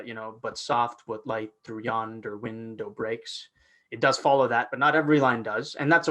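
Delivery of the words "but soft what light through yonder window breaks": iambic recitation. Shown as a demonstration. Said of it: "the first one certainly follows the".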